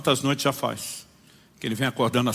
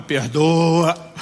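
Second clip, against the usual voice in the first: "Perdoa." louder and stretched out; louder insisting; 2 semitones higher, 4 dB louder than usual. Retold or imitated. Inner voice insists harder on forgiveness. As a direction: push harder the second time. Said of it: "começa a insistir".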